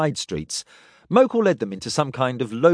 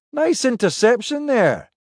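higher, brisker captain voice; Pike's voice; 11 semitones higher than usual. Acted. Pike praises Kref.

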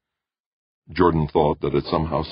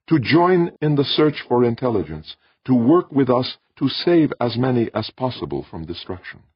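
alien voice; 10 semitones higher, 4 dB louder than usual. A narrator's reading.

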